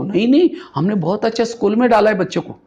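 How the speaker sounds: mimicked parental protest; defensive parents. Acts out parents brushing off advice.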